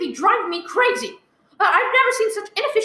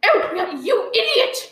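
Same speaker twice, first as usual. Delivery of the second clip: angry outburst; 3 semitones higher, slower than usual. Acted. Furious outburst after hanging up.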